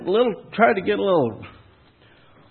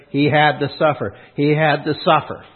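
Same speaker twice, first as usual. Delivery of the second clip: "He had to suffer" twice, with measured stress on "had" and "suffer"; emphatic repetition. Acted. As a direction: hammer home "had to suffer" by repeating it evenly. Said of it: "they always emphasize".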